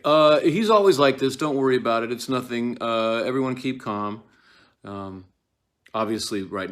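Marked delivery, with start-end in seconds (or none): 0.0-4.2 nervous covering up. Acted. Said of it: "Lady Macbeth is like".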